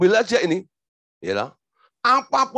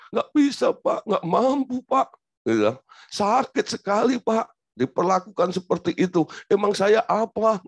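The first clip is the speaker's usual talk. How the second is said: mock tearful plea; 3 semitones higher than usual. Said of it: "Akhirnya dia nangis".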